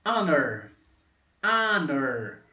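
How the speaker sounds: Honor with silent H and an A-like first vowel; English honor. Shown as a demonstration. Teacher modeling honor, silent h. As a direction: say Honor as ano. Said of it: "Tem som de A".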